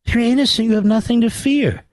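"If you're innocent" in a thick mock German accent. Host mocks Democrats to his producer, in German accent. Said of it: "said in German with a German accent".

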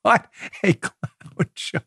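slow, breathy words through laughter; laughing in disbelief. Real, not acted. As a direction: still laughing as you say it. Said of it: "I'm crying, tragically laughing".

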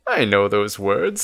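put-on mildly excited old man; a touch of dawning recognition; light, lilting excitement. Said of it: "says Nesbit excitedly".

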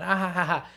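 light pretend laugh of carefree play; mock fun laughter. Showing what the sprinting is not, mock fun laughter. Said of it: "like, having fun".

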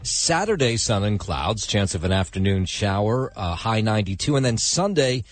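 brisk morning news read; radio weather read. Acted. Host opens the morning show with a news read. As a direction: rattle off the forecast to commuters.

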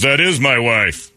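mildly put-out husband; retold indignant correction. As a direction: correct them slowly, a touch affronted.

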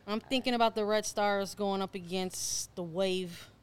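slow hammed-up Chicago accent. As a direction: drawl it like a Chicago sports fan. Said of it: "in our best Chicago accents".

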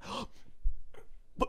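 sharp breath sucked in and held; mock self-conscious intake of breath; held-breath gasp. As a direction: act out self-consciously holding your breath. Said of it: "self-consciously holding my breath".

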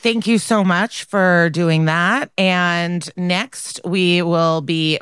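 slow, flat robotic delivery; half robot voice. Real, not acted. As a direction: read it stiffly like a robot. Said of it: "Why do I sound like a robot?".

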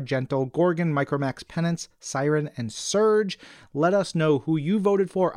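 usual speaking voice

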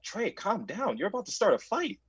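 quietly telling him to calm down; quiet warning. Retold or imitated. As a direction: hold him back in a hushed tone.

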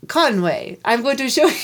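badly faked French accent, laughing; terrible French accent. French guide promises to show Conway fishing, bad French accent. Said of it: "It's a terrible accent".

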